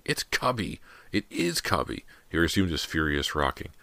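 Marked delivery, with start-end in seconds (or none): 0.0-2.0 put-on high-pitched childish protest; angry insistence. A narrator's reading. Little brother insists to sister about Cubby, angry and high. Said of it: "screamed angrily".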